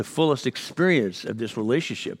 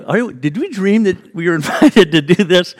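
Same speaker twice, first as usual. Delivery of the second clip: 1 doubting ourselves; 7 semitones higher, 10 dB louder than usual. Retold or imitated. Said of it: "it sounded like".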